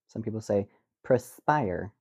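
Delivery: perspire said press-pire, slowly; wrong way. Shown as a demonstration. Host demonstrating press-pire slowly. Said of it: "Instead of perspire".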